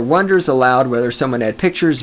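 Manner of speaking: ordinary talk, nothing marked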